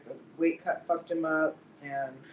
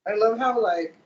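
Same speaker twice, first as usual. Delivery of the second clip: excited; 5 semitones higher, 9 dB louder than usual. Real, not acted. Gushing about a friend.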